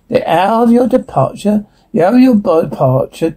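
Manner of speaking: demon echoing the words, pitch sliding about; demonic babbling. Acted. Demon parroting the exorcist's command, babbling. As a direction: babble it back like a mocking demon. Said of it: "Demonic voice babbling".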